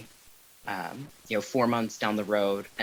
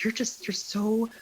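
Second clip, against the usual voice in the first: put-on higher-pitched, lightly gushing older woman; imitated proud admirer; 8 semitones higher than usual. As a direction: play her touched and proud, pitched up. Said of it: "And, and she's just like".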